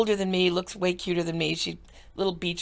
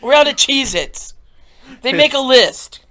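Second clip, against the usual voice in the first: dog voice; 5 semitones higher, 10 dB louder than usual. Pretend. Voicing dogs' demands.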